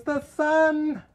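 very high, loud, drawn-out warning; imitated shriek of alarm; frantic screaming. Friend's daughter warning about the sun, screaming. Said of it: "started screaming".

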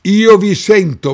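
calling from far away. Real, not acted. Calling over a failing audio link.

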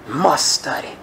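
"Must study" dropped low and soft, a hushed repeat; soft echo. Acted. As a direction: let "Must" land quietly. Echoing the point softly.

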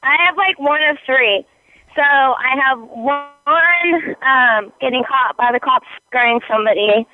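breathless, panting between words; out of breath. Real, not acted. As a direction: talk like you just went jogging. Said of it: "Are you out of breath?".

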